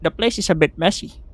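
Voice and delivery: a hint of an old woman giving directions; lightly acted granny host; lightly voiced granny. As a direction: show the guest around as a granny. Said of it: "gusto ko maging boses ng granny".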